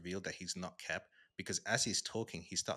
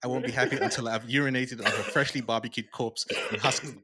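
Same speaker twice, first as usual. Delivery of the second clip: loud ranting comic villain read; loud quote reading; 3 semitones higher, 8 dB louder than usual. Retold or imitated. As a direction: rant it out like a trash-talking hero. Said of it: "I have it here somewhere".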